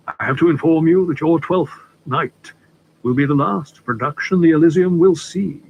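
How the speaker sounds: a hint of a courtly older gentleman, unhurried; polite stranger easing into business, lightly played; lightly voiced suave Litchfield. Litchfield breaks the news.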